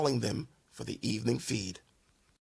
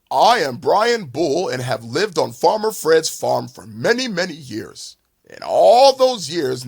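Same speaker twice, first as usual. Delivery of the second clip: big bull's voice; 5 dB louder than usual. Acted. Giant bull confronts bully.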